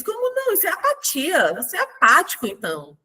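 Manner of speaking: high-pitched incredulous retort; mock astonishment, voicing the character; indignant quoted challenge. Settembrini challenging Hans, incredulous. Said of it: "Aí ele diz".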